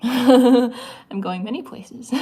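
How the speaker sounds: high, slow laughing tease; playful mock-mysterious laugh; silly laughing. Real, not acted. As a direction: giggle through it, being silly. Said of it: "I'm being silly today".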